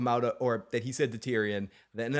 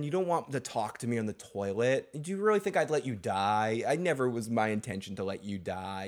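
ordinary talk, nothing marked

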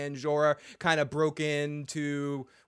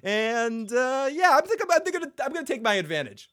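hammed-up smug villain; imitating Ramsay; 3 semitones higher, 4 dB louder than usual. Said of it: "Ramsay basically says to him".

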